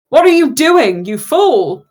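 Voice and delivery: grand villain's outraged question; Laszlo. Acted. Game master voices Rolmy stopping his blow, Laszlo-like demand. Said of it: "why does he sound like Laszlo?".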